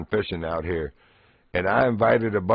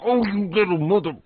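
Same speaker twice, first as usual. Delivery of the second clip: mock startled cry, higher and louder; startled curse; 12 semitones higher, 5 dB louder than usual. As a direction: yelp it as claws hit your ankle. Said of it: "It's like".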